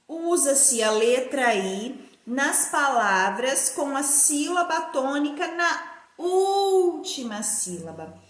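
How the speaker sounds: measured dictation leaning long on "última"; spaced-out classroom dictation. Shown as a demonstration. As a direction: dictate in chunks, stretching the U of "última". Teacher dictates answer to write.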